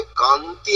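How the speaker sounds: কান্তি said as one unbroken unit; joined as one. Shown as a demonstration. Teacher showing what is said together, কান্তি in one piece. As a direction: keep কান and তি together in কান্তি. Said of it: "একসাথে বলতে হবে".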